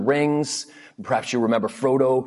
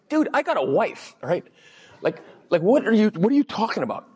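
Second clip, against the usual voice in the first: incredulous refusal; 7 semitones higher than usual. Retold or imitated. Retelling his own refusal.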